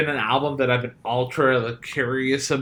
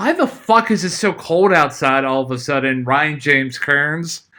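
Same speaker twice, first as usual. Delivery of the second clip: ordinary delivery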